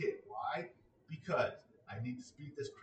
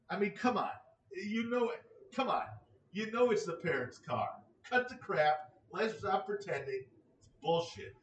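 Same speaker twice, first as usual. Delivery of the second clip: higher and louder, fed-up ranting; exasperated rant; 6 semitones higher, 4 dB louder than usual. Real, not acted. Ranting at the teacher over the parents' cars, exasperated and loud. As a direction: vent at the teacher, come on. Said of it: "I'm not happy".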